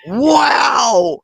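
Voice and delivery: shouting through laughter; laughing shout. Real, not acted. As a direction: cry out between laughs. Reacting to the savage insult.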